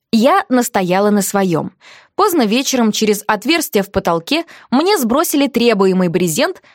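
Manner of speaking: ordinary delivery, nothing marked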